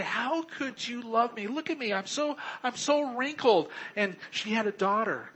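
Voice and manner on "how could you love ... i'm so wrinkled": imitating Cheryl. Voicing doubting bride Cheryl.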